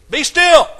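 full-force, high-pitched shout; hollered command. Acted. Preacher as Jesus rebuking the wind, hollering. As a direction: holler it as an order to the storm. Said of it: "I imagine he hollered at it".

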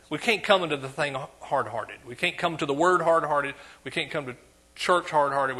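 ordinary talk

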